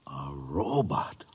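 awed hushed whisper. Acted. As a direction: breathe it out in awe. Awed at the approaching robot.

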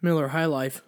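talking between sips of beer; while sipping a drink. Real, not acted. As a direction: speak with a drink at your lips. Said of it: "You can hear me drinking this".

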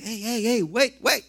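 hey hey, wait, called out from above; God calling stop. Acted. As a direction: call out like God stopping a runner. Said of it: "Dios va y dice".

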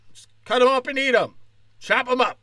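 high-pitched rallying cry; mock protest cry. Occupy protester rallying against the rich, high mock cry.

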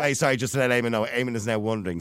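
chewing a biscuit; speaking through a bite; mouth full. Real, not acted. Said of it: "I'm eating a biscuit while I'm talking".

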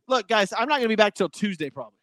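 breathing heavy after running around; winded from fixing the router. Real, not acted. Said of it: "Sorry, I'm breathing heavy".

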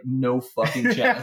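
slow words through laughter; laughing. Retold or imitated. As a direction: laugh while drawling it out. Mocking retold refusal, laughing.

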